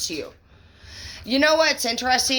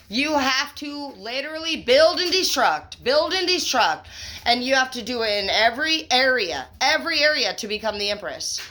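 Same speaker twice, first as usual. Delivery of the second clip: higher and fired up, words tumbling out; carried away by her own reading, excited; getting really excited; 4 semitones higher than usual. Real, not acted. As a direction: preach it with rising excitement. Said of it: "I'm sorry, I'm getting really excited".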